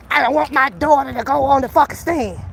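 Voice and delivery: lightly voiced whiny father, barely changed; mocking the other dad. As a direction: mimic the dad from his video, half-hearted. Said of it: "I saw his fucking video".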